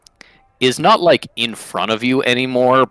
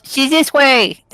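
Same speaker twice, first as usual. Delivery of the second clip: Kekano; 7 dB louder, slower than usual. Acted. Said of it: "He goes".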